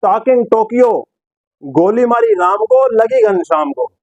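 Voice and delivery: lightly imitated commentator's slow one-liner; Sidhu. Presenter quoting Sidhu's catchphrase to viewers, mildly declaimed impression. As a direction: draw out the rhyme, lifting then dropping at the end. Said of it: "अब सिद्धू बोल रहे हैं".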